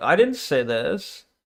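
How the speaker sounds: very meek, weak, low, soft voice. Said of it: "He says it very meekly".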